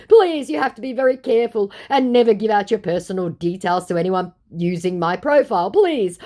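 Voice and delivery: playing the fake Hugh Jackman begging fans to trust him; scammer's voice. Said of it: "he goes".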